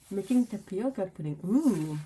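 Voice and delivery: talking through a mouthful of cookie; words around a bite of cookie; mouth full. Real, not acted. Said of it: "I shouldn't speak with my mouth full of cookie".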